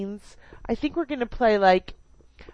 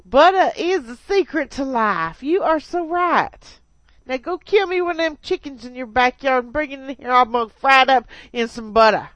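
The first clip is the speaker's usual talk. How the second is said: put-on Southern accent; 2 semitones higher, 3 dB louder than usual. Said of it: "I was just doing Paula Deen".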